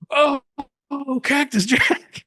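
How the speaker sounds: high, slow, drawn-out swoon; mock awed fan. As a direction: gush the name like a starstruck fan. Mock fan reaction to Cactus Jack.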